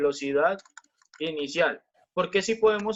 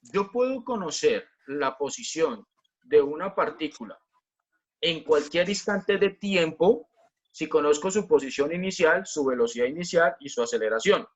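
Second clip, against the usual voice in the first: careful key statement. Shown as a demonstration. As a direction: spell out the principle phrase by phrase. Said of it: "fíjense lo que les voy a decir".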